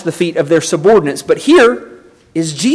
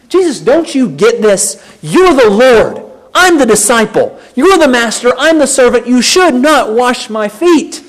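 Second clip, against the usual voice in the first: emphatic protest; 4 semitones higher, 3 dB louder than usual. Retold or imitated. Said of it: "as emphatic as he can make it".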